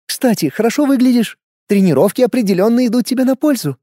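purring femme fatale. A narrator's reading. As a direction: purr it, sultry and teasing. Kasumi voiced by narrator. (мурлыкающая роковая женщина)

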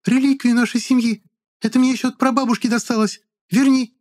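put-on very high, thin girl's voice; shrill girl voice. A narrator's reading. Charlotte's voiced character.

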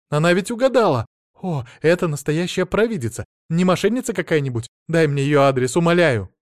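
high, loud eager begging; excited pleading. Acted. Wife begging her husband for the address, excited. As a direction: gush and plead breathlessly. Wife begs for fortune teller.

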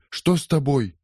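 high, scared little question; frightened question. Acted. Polly, alarmed at her mother's bruises, asks in fright. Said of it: "испугалась Полли".

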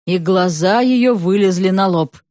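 ordinary delivery

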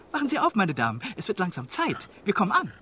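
calling out. Acted. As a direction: call across the compartment. Waking the ladies, calling out.

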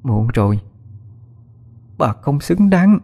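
slow, cold verdict through gritted teeth. Acted. Daughter refuses her mother's plea, slow and through gritted teeth. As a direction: spell out her sentence slowly, teeth clenched. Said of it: "Suối nghiến răng".

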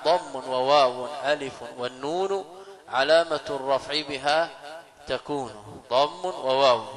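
slow, measured reading of a poem; verse recitation. Acted. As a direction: recite the grammar verse slowly, word by word.

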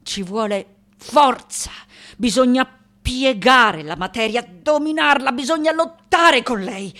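rising, emphatic push on each verb; forceful exertion. Acted. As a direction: strain as if wrestling the material. Sculptor exalts violent struggle with matter. (con forza crescente, lottando)

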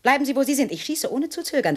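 high, loud armed threat; threatening shout. Acted. Woman holds the intruder at gunpoint, shouting threats. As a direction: warn him off at gunpoint.

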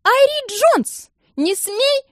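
slow, very high, loud shriek; shrieked warning. A narrator's reading. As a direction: scream a warning at the girl. Alsana warns Irie. (медленный очень высокий громкий крик)

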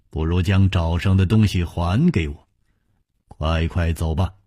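calm and gently amused hero; 淡然微笑地说; smiling calm. Acted. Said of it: "只是微笑着说".

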